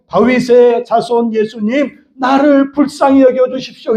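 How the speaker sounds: high, drawn-out plea to Jesus; crying out. Acted. Preacher voices Bartimaeus begging Jesus for mercy, crying out. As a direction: call out slowly on a high, sustained pitch. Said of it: "이렇게 외쳐야 될 줄로".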